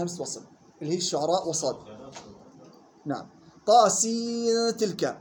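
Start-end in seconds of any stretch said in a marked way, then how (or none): 3.7-5.2 طاسين تلك joined with a held hummed nun; hidden nun before ta. Shown as a demonstration. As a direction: stretch سين and glide into تلك. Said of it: "وصلا بإخفاء النون عند التاء". (طاسين تلك بإخفاء النون)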